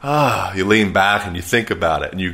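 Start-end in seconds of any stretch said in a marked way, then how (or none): 0.0-0.5 a high wistful ah; nostalgic sigh. Shown as a demonstration. Thinking of the past, wistful sigh. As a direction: sigh back into the good old days. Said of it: "you kinda go".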